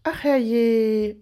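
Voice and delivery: loud, high "oh dear" with a laughing edge; surprised cry. Acted. Guest cries out as the Santa pair enters, amused surprise. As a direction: gasp it out, amused and shocked. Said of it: "überraschten Ausrufe".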